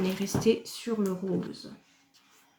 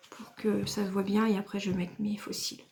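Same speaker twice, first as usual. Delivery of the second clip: hushed tutorial whisper; quiet beauty-vlog whisper; soft whisper; 4 dB quieter than usual. Real, not acted. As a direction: whisper the next step close to the mic. Whispered running commentary.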